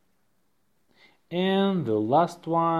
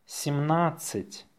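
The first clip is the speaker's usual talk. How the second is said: natural-speed dictation, softer; faster; 5 dB quieter than usual. Shown as a demonstration. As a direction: say it briskly and lightly.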